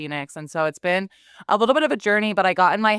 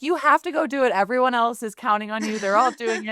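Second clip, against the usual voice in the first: mock baby voice; 5 semitones higher than usual. Voicing baby urging her on.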